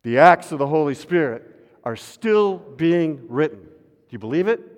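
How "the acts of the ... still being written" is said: louder, slowed refrain; refrain with congregation. Shown as a demonstration. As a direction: drive the refrain out louder, drawing it. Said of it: "You can join me if you want".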